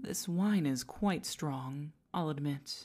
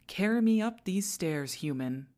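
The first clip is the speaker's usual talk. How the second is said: louder, higher regal order; haughty, raised order; imperious command; 3 semitones higher, 5 dB louder than usual. Acted. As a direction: command your servant to carry you. Commands servant to climb stairs.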